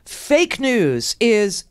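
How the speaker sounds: slow, drawn-out "Fake news is"; mock all caps. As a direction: read each word of "Fake news is" slowly like shouted caps. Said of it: "and in all caps, 'cause he's angry".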